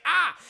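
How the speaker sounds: short, high, loud mock "ah"; hammed-up cry of pain; pained yelp. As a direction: yelp as a cramp bites. Man yelps from cramp.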